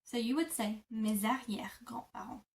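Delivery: mes arrière with a z sound joining mes and arrière; z liaison. Shown as a demonstration. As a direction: glue the s of mes into a z. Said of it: "S becomes a Z kind of sound".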